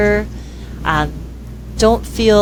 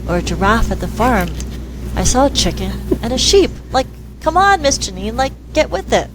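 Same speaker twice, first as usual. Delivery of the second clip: put-on child scoffing; 3 semitones higher than usual. Girl scoffing at adult.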